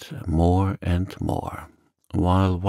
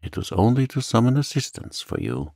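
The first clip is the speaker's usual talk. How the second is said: higher, mildly proud reply; a touch of pride; 5 semitones higher than usual. Acted. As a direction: explain with dignity. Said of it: "replied Dante proudly".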